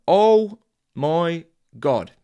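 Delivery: slow, loud, drawn-out oh my God; a loud, slow gasp of disbelief; stunned oh my God. Real, not acted. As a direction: let the disbelief stretch out. Reacts to the list of foods.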